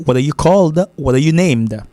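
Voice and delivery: "what are you" linked as "wada you"; American flat T. Shown as a demonstration. Teacher modelling the American accent, flat T. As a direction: tap the T in "what are" like a quick D. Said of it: "c'est l'accent américain".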